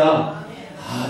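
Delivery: ordinary delivery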